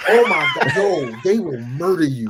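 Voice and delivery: squealing high through a laugh, amused; real laughing outburst, very high then loud; laughing shriek. Real, not acted. Teasing about ordering Heineken.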